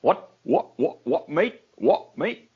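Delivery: a mock cockney "What, mate?" with the pitch up on "mate"; bad Essex accent. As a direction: badly imitate an Essex bloke. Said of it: "That is the worst Essex accent in the world".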